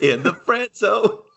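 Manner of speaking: high, slow giggling jab; laughing tease. Pretend.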